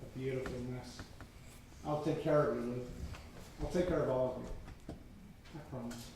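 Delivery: tender. Acted. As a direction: promise it gently. Man tenderly reassuring her.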